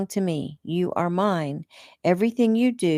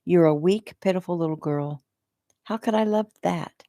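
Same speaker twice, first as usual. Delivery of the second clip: disgusted. Acted. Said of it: "disgust dripping from her voice".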